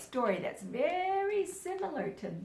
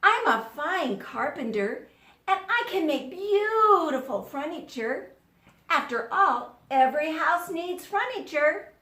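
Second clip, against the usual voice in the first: a bit higher, louder, eager sales pitch; eager goose; 4 semitones higher, 4 dB louder than usual. Acted. Goose persuading the animals to take him along, eager higher voice. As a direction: sell yourself to the others.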